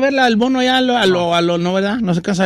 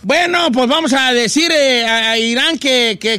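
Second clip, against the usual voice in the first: higher-pitched headline teaser; comic news read; 4 semitones higher than usual. Acted. Host reading joke headlines about Trump, comic newsreader style. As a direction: announce it like mock headlines.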